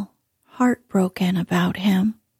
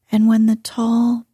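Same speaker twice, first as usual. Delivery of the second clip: ordinary delivery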